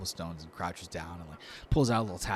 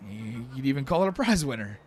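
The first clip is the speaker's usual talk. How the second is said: higher, earnest little sales pitch; hopeful Lortho; 5 semitones higher, 4 dB louder than usual. Acted. Lortho offers acorns to trade for stew, hopeful high voice. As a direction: show it off proudly, voice lifting.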